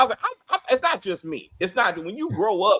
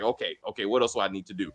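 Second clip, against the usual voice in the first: mock timid yes-man, lower pitch and softer; meek Casey, lower and softer; 9 semitones lower, 4 dB quieter, faster than usual. Host imitating Casey taking orders from Beth, mock meek and low. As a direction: play him as a cowed husband, voice pitched down and softer.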